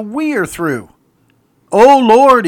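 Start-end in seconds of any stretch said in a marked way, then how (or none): 1.7-2.5 loud, high plea to God; raised-voice preacher's lament; crying out. Retold or imitated. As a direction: cry it out to heaven. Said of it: "he cries out".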